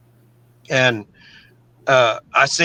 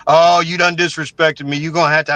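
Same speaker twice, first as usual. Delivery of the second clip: raised, louder confrontational challenge; angry inmate threat; 4 semitones higher, 4 dB louder than usual. Retold or imitated. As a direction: bark it at him like a prison bully. Buzzard confronts him angrily.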